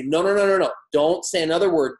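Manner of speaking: insistent interrupting coach; firm coach. Acted. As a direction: shut down the objections firmly. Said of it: "And say".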